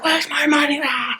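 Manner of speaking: high, put-on bully voice; mock menacing yell. Coworker looming over the lady, hammed-up menace. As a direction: play the thug demanding money. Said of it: "And he's like".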